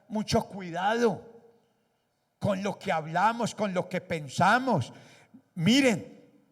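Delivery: loud, high, full-force preaching; fiery preaching. Acted. Pastor exhorting the congregation, loud fiery preaching.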